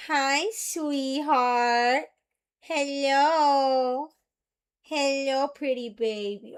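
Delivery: slow cooing pet voice. Real, not acted. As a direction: coo at the dog. Cooing at her dog.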